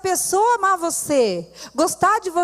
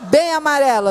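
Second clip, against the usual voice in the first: laughing; 4 dB louder than usual. Real, not acted. Laughing at the yellow dress.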